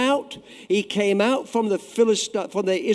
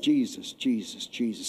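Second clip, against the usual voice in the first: soft inward murmur of Jesus; hushed, reverent calling of the name; quiet prayerful repeat; 6 semitones lower, 7 dB quieter than usual. Shown as a demonstration. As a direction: say the name softly to yourself. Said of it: "to yourself, say it first".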